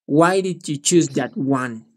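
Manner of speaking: slow, measured "Why did you choose that one?"; slow model sentence. Shown as a demonstration. Teacher models the question for a student, slow and measured. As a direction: model "that one" slowly for a learner. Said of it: "lo hace más enfático, enfocándose en algo".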